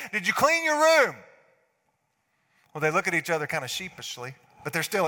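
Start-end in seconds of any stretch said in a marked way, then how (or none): 0.1-1.2 loud, higher demanding dad; stern dad question. Retold or imitated. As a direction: press the kids hard. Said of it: "I said".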